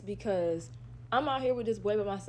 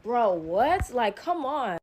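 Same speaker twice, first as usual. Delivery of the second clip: loud disbelief; 2 semitones higher, 5 dB louder, slower than usual. Retold or imitated. Retold reaction to the farts.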